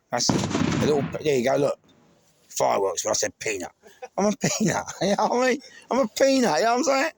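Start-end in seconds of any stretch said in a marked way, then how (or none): 4.2-7.1 laughing. Real, not acted. Laughing at his own peanut joke.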